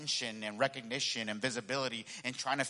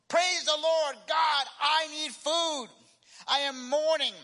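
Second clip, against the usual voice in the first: high, booming plea to heaven; loud prayer shout; 11 semitones higher, 5 dB louder, slower than usual. Acted. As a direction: cry out to God from the porch. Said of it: "shouted loudly".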